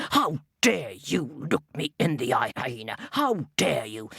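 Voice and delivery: low, growling outrage; low indignant king; angry lion. Acted. Lion's angry reply.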